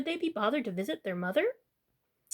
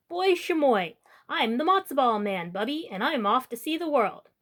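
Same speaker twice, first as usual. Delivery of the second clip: proud boast. Acted. Matzo ball boy boasts proudly.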